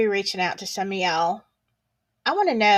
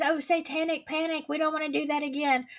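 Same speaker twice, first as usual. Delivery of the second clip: mock dismissive; 5 semitones higher, 6 dB quieter than usual. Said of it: "everybody says".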